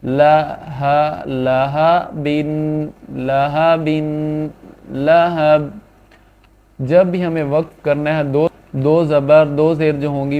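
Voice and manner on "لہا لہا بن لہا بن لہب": slow drill. Shown as a demonstration. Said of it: "دو زیریں ختم ہو جائیں گی".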